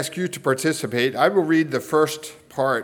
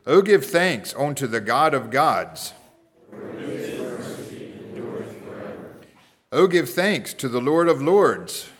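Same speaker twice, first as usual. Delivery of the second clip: measured responsive psalm reading; scripture reading. Acted. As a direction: read each verse out, leaving room for response.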